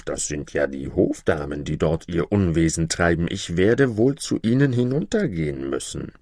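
tiefere, brummige Kaiserstimme; Kaiser. Acted. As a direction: ein alter Kaiser, leicht tiefer gesprochen. Emperor voice, lower. (verwunderter Kaiser auf dem Balkon)

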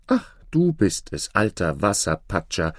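a hint of a fairy-tale princess. Princess recognises the frog.

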